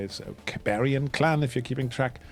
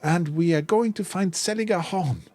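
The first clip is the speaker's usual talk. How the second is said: high, louder, forced boldness; a nervous son defying his father, pitched higher; shaky defiance; 6 semitones higher, 4 dB louder than usual. Acted. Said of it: "visibly shaking, but he puffs out his chest".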